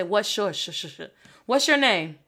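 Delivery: "What's your" meshed into "whatchur"; run together. Shown as a demonstration. Teacher shows casual English blending. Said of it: "we mesh it together".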